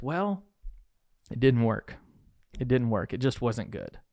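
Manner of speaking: acting out a deflated trainee; mock dejected. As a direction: report failure with a letdown drop. The speaker reports failure in role play.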